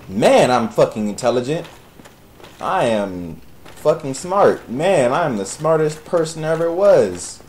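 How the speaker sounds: deadpan self-mockery; dry sarcastic boast. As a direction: praise yourself while meaning the opposite. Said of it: "He said very sarcastically".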